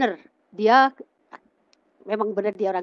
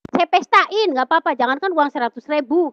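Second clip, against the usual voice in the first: high, louder imitated insistence; emphatic retold promise; 6 semitones higher, 5 dB louder than usual. Mother offers daughter a wedding party, emphatic retold promise. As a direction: promise big, pressing the point as a mother.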